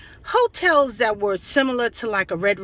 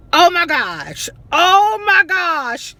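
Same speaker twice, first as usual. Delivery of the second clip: disbelief; 6 semitones higher, 5 dB louder, slower than usual. Real, not acted. Laughing at the memory.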